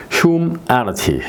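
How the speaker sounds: 휴- then 애니티 said slowly apart; syllables split. Shown as a demonstration. Teacher splitting humanity into parts. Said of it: "이렇게".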